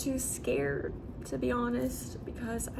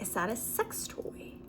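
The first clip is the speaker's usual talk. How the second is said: hushed whisper; 7 dB quieter than usual. Retold or imitated. Creepy coworker whispers question.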